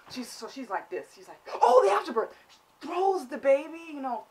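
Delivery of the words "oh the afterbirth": higher and louder, a hammed-up gushing mother; a put-on, sing-song mother's voice; mock delighted mother. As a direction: gush like a proud new mum who forgot something. Mimicking the mother remembering.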